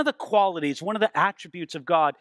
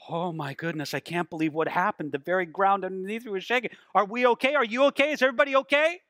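shaken alarm; faster than usual. Acted. Preacher acting someone after an earthquake, shaken and increasingly anxious. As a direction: check on everyone with rising worry. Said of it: "No, you're like".

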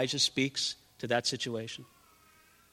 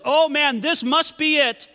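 higher, louder eager cry; excited prophet; 10 semitones higher, 7 dB louder, slower than usual. Acted. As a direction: voice Elijah thinking this is it. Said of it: "And he's like".

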